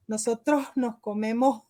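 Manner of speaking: final S of "Nosotros", "nos", "comemos" softened to a breathy h; swallowed S. Shown as a demonstration. Actress demonstrates Venezuelan habit of eating the S, swallowed S. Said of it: "las eses".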